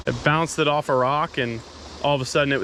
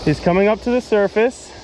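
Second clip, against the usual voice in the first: higher, louder, rising with excitement; excited; 5 semitones higher, 3 dB louder than usual. Real, not acted. Angler sees the fish surface, excited and higher. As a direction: let the thrill lift the repeat.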